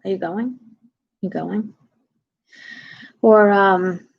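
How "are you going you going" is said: casual, quieter New York question. Acted. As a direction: ask it softly in an everyday New York accent. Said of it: "Like in New York".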